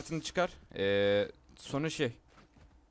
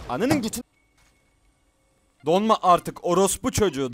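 loud angry cursing at the lagging PC; furious yell; 3 semitones higher, 8 dB louder than usual. Real, not acted. Gamer yelling at his freezing computer, furious. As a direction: snap at the machine in real rage.

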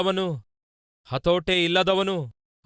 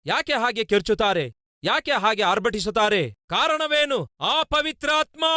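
high questions climbing to a shouted answer; rising sermon climax; impassioned preaching; 6 semitones higher than usual. Real, not acted. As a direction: build from insistent questioning to a very high cry. Preacher building to his answer.

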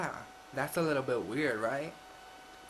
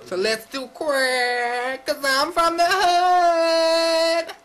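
mock hood voice; 13 semitones higher, 12 dB louder, much slower than usual. Goofing in a put-on voice.

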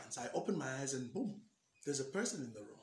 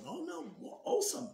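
high, stumbling, eager answer; flustered reply; 13 semitones higher than usual. Retold or imitated. Caught off guard by the visitor, high flustered answer. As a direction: bluff it out in a bright high rush.

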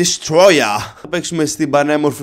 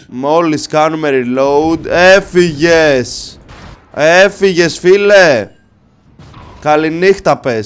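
slow, drawn-out gloat, then louder; 5 dB louder, much slower than usual. Pretend. Gloating at the fleeing enemy ship, slow and louder. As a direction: savour the kill.

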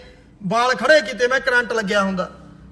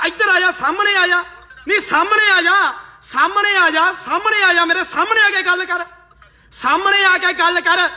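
laughing taunt; 3 semitones higher than usual. Real, not acted. Challenging caller, laughing.

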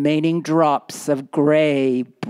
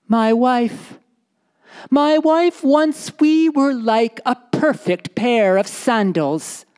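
husband's voice, higher, gently preachy; a storyteller voicing a pious, lecturing Bedouin; 7 semitones higher than usual. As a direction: lecture your wife about worldly things. Husband rebukes wife.

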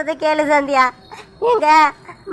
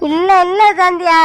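tearful denial; 3 semitones higher, 4 dB louder than usual. Acted. Sakthi protests his innocence.

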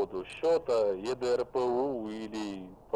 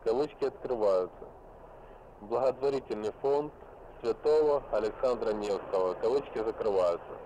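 dictating. Real, not acted. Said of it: "Повторяю ещё раз".

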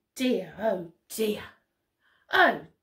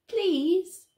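polite please; 4 semitones higher than usual. Acted. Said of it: "Stands up nicely".

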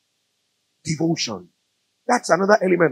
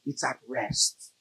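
hushed emphasis; 4 semitones lower, 14 dB quieter, slower than usual. Real, not acted. Preacher quiets for emphasis.

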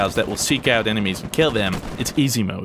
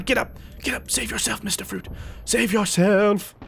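mock dramatic plea; 7 semitones higher than usual. Dramatic plea to downed teammate.

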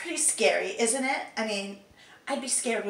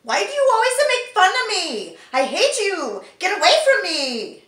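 higher, louder tearful outburst; hurt angry shouting; 10 semitones higher, 11 dB louder than usual. Acted. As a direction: lash out in hurt fury. Voice actor trying line takes.

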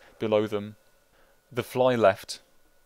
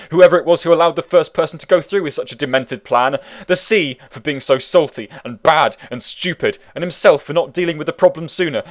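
angry rant; 3 semitones higher, 7 dB louder than usual. A narrator's reading. Narrated cursing fit, read loud.

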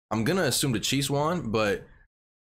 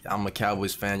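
voice crack; 4 semitones lower, 4 dB quieter than usual. Real, not acted. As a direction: voice cracking mid-line. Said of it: "Y'all did not hear that voice crack".

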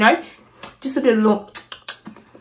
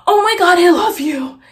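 louder, gushing excitement; excited fan; 7 semitones higher, 3 dB louder than usual. Retold or imitated. Thirteen-year-old fan meeting her idol, gushing. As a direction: gush it out like a starstruck fan.

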